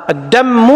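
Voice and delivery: الدم said "ad-dammu", with a double m; wrong doubled mīm. Shown as a demonstration. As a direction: hold the mīm of الدم before a final u. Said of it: "هذا غلط ترى".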